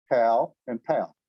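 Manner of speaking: pal and pal, plain p then aspirated p, slow; Korean p contrast. Shown as a demonstration. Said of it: "Here's one I tried this morning".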